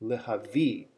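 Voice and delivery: "lehavi" with the weight on "vi"; spoken "lehavi", end stressed and falling; stress on final syllable. Shown as a demonstration. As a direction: land on the last syllable of "lehavi". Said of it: "on the syllable V".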